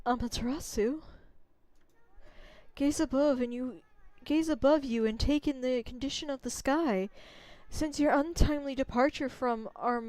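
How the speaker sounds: a gentle ancient spirit pleading; Sakuya voice. Acted. Tree spirit begging the wolf goddess for help, softly.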